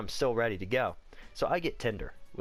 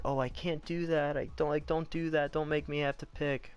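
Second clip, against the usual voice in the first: higher-pitched imitation of her pleading; imitated pleading; 5 semitones higher than usual. Retelling her pleading refusal.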